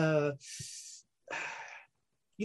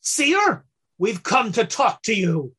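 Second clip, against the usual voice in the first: cat ambassador addressing the seer. Acted. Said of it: "he says to you".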